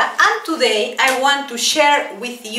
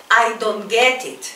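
slow model phrase; 2 semitones lower than usual. Shown as a demonstration. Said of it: "Let's repeat".

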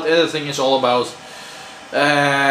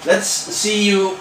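pet talk; 6 semitones higher, slower than usual. Real, not acted. Talking sweetly to pet.

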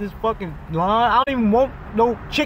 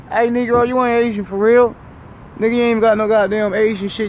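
raised, louder mock accusation; loud playful jab at his friend; louder teasing call-out; 3 semitones higher, 5 dB louder than usual. Real, not acted. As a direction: call him out louder this time.

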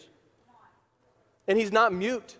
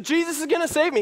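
high-pitched insistent refusal; acted holdout; stubborn insistence; 10 semitones higher, faster than usual. Acted man refusing rescue.

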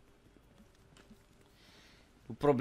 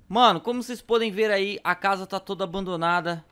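being chased; 7 semitones higher, 6 dB louder than usual. Real, not acted. Still running from zombies.

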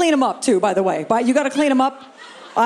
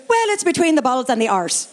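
put-on Irish accent. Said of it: "a woman from Ireland".

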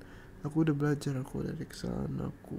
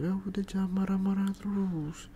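higher-pitched, pouty pleading; whiny plea; 4 semitones higher than usual. Acted. Telling an upset partner to stop being angry, whiny plea.

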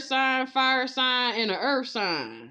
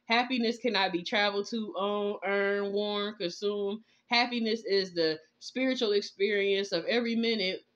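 scripture reading. Acted. Reads prayer and scripture.

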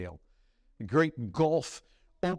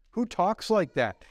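incredulous, emphatic mock question; scoffing disbelief; 3 semitones higher, 3 dB louder than usual. Scoffer reacting to talk of kissing Christ, incredulous. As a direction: scoff at such strange talk.

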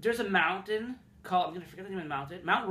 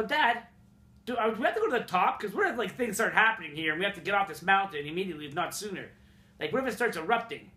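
put-on scared kid; faster than usual. Kid scared on volcano drive.

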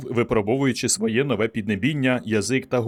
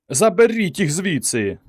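high, loud, slow command; shouting; 7 semitones higher, 4 dB louder, slower than usual. A narrator's reading. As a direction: order the crowd out. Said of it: "вигукнув Фелдман".

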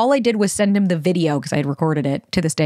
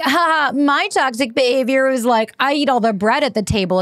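cutesy mock confession; 5 semitones higher than usual. Mocking cutesy Instagram posts, in a light sing-song. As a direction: play up a fake-cute Instagram confession. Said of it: "you could be cutesy and shit for Instagram".

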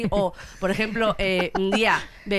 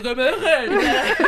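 grumpy dad; 7 semitones higher, 6 dB louder, much slower than usual. Retold or imitated. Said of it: "Y el otro".

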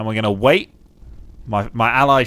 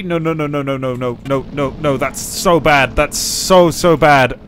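being chased; 4 dB louder than usual. Real, not acted. Being hunted by tank.

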